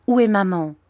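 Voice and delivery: put-on worried child's demand; anxious question. A narrator's reading. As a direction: ask anxiously for your mother. Child anxiously asks after mother.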